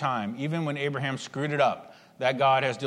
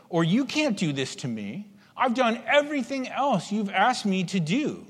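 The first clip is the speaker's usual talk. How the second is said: raised, urgent plea to God; higher-pitched complaint of a wronged servant; pleading protest; 6 semitones higher than usual. Retold or imitated. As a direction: remind God of all you've done, voice climbing.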